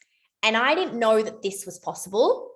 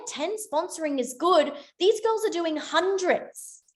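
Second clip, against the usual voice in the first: rising realization; 8 semitones higher than usual. Retold or imitated. Comparing herself to the girls.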